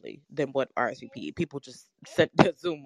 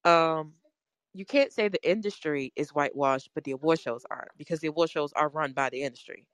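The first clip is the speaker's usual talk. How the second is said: muffled through a face mask; talking through a mask. Real, not acted. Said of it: "I'm talking through a mask".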